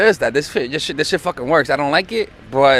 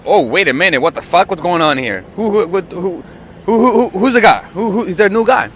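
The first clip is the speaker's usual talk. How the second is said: 1=panicked inner voice; 3 semitones higher than usual. Retold or imitated. Boyfriend suddenly suspecting a new guy, frantic. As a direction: stammer out the who's in a jealous panic.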